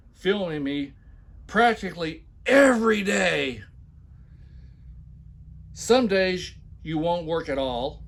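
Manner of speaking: mock the boss's demands; mock emphatic reading. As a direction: overblown mocking reading. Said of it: "when I put heavy accents and shout".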